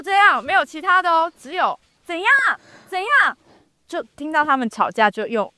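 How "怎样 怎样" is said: mock quarrel. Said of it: "两个人他们在吵架".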